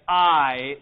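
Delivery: I said as in "height"; pronunciation of epsilon iota. Shown as a demonstration. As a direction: say I as the vowel of height. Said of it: "as in our word height".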